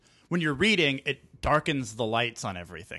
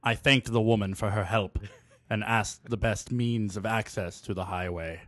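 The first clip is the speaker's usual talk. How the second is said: low sultry reading with whispers; sexy voice; 3 semitones lower than usual. Acted. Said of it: "in your sexy voice".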